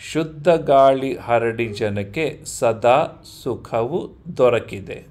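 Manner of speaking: connected, rhythmic poem recitation; poem read-through. Shown as a demonstration. Teacher rereading a para to pupils, poem recitation. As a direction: read the verse through line by line. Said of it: "I'll read this para once again".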